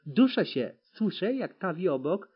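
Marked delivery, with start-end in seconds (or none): 0.0-0.7 loud, strangled protest; choking. A narrator's reading. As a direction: force it out while being throttled. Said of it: "chwycił za gardło".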